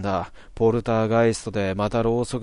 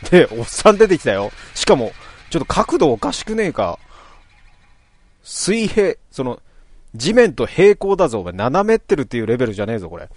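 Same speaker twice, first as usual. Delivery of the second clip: loud, high, incredulous rant; louder and faster as the disbelief grows; excited ranting; 4 semitones higher, 7 dB louder than usual. Real, not acted. Gamer mocking a crooked old man sprite, loud and incredulous. Player reacts to weird game sprite.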